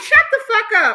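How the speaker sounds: high, loud mock shout with a laugh; retold shout. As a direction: yell it back at the commenter, half laughing. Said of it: "I was like".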